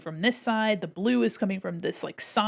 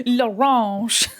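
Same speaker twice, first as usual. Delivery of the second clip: louder hammed-up French accent on L'orange; mock French; 5 dB louder than usual. Shown as a demonstration. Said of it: "I just said".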